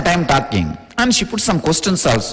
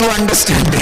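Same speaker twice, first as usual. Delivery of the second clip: mock shout; faster than usual. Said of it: "I'll change my language into".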